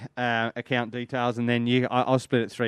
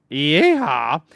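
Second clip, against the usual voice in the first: mock cowboy whoop; 3 semitones higher, 7 dB louder than usual. Reading fan's cowboy greeting.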